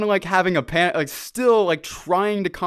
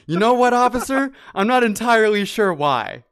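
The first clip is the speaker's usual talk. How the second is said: higher, louder nervous babble to the officer; panicked reply; 5 semitones higher, 4 dB louder than usual. Retold or imitated. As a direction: blurt it out in a panic.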